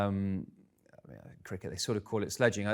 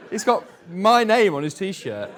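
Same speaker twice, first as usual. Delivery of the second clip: laughing it out, slow and loud; can barely get it out for laughing; 10 semitones higher, 7 dB louder than usual. Real, not acted. Telling the audience the fan wore his name, laughing loudly.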